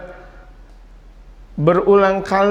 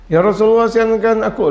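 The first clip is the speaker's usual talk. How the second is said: higher, pushier plea; insistent companion; 5 semitones higher than usual. Retold or imitated. Companion pleading with the Prophet, raised insistent voice. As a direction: press the Prophet once more. Sahabat asks yet again.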